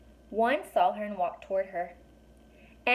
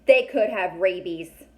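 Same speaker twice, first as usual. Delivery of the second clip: worried warning; 7 dB louder, slower than usual. A narrator's reading. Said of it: "Connor said".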